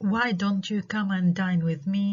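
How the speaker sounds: invitation falling at the end of "dine with me"; falling intonation. Shown as a demonstration. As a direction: let "dine with me" step down to a close. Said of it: "Invitations always have falling intonation".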